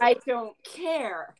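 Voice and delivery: slow, curt and dismissive. Real, not acted. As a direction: toss it off like you don't care. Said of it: "Oh, that was the tone".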